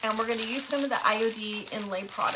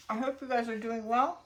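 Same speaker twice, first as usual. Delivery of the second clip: talking through a mouthful of cookie; chewing while speaking, mouth full. Real, not acted. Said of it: "Excuse me for talking with my mouth full".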